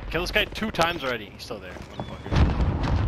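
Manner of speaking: panicking gamer. Real, not acted. Frustrated muttering.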